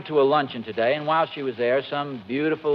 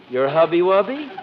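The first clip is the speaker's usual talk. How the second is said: mock baby talk. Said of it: "that silly thing you called me".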